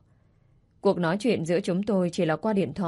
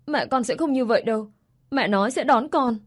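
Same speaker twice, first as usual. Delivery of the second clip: put-on child defending mother; 5 semitones higher than usual.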